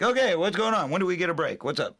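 high, loud cast member butting in; impatient mock eagerness. Retells clowning actors interrupting serious work.

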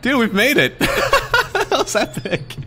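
excited. Real, not acted. Escaped the level.

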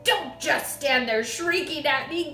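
yelling. A narrator's reading. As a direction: yell at her to stop dithering. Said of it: "the father yelled".

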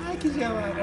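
high soft cold gasp; in ice cold water. Real, not acted.

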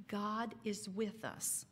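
soft, slow hush; whispered. A narrator's reading. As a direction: breathe it quietly in fear. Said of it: "Damara whispered".

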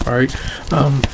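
strained, losing her voice; talking through a worn-out voice; hoarse voice. Real, not acted. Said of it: "I'm losing my voice".

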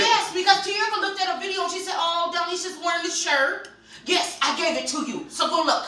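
assertive but not mad; loud, aggressive-sounding. Real, not acted. Mom insisting to daughter she gave the shirt, assertive. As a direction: insist firmly, without real anger. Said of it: "She sounds aggressive".

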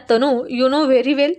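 very slow, drawn-out teasing boast. Acted. Husband teasing his wife, very slow and drawn out. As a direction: stretch each word out, smugly.

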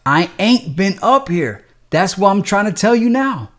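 voice rising in fear. Acted. Donald begging the nurse for his medicine, rising and fearful. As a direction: panic creeping up. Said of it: "his voice rising with his fear".

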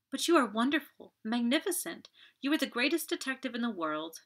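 thrilled Marthe praising Poirot; admiring. Acted. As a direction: gush over the detective. Marthe in awe.

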